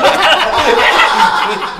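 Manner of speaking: big burst of real laughter; loud laugh. Real, not acted. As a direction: let out a loud, open laugh. Laughs at own joke.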